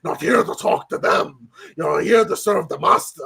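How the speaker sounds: mock-sinister cartoon delivery; voiced cartoon parody character. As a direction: draw it out in a hint of a spooky character voice. Acted dog, a serial killer parody.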